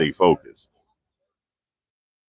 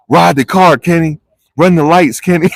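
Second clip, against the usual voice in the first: higher and louder, a playful hype shout; pretend courtroom yell; 9 semitones higher, 5 dB louder than usual. Vlogger imagining yelling at Diddy's driver in court, playful hype shout. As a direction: cheer him on like a rowdy fan. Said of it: "I just wanted to yell it in court".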